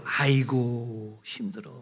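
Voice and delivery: mock exhausted groan of a tired church worker; weary sigh. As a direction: let the breath sag out, worn down. Sighing over church squabbles.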